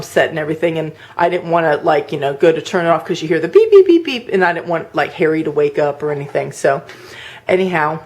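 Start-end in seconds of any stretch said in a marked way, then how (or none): 3.5-4.3 high quick beeping; high, rapid-fire beep imitation; imitated alarm beeps. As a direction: mimic the alarm going off.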